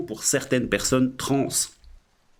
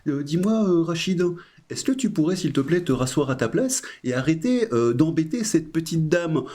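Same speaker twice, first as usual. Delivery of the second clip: gentle mediator; 4 semitones higher than usual. Retold or imitated. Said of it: "le médiateur qui arrive, il te fait".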